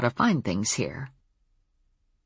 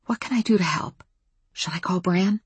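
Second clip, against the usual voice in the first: half-whispered, higher-pitched offer; 5 semitones higher than usual. A narrator's reading. Offering help to a dangerous wolf, whispered. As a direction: ask carefully in a hushed, raised voice. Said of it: "I whispered".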